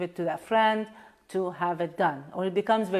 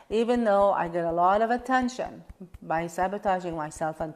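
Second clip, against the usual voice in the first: tapping setup statement. Shown as a demonstration. Teacher tapping on attention from complaining, gentle recitation.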